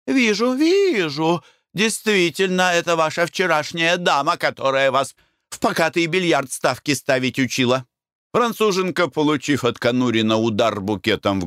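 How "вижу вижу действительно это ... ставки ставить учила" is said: mild wife's voice. Acted. Glafira answering, female voice.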